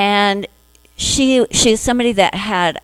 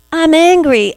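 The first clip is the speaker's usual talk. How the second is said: mock angry; 8 semitones higher, 4 dB louder than usual. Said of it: "one part of you going".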